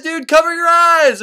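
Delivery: high, loud and drawn out slowly; desperate repeated shout. Acted. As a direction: stretch the second warning into a panicked yell. Virgil warning Dante of Medusa.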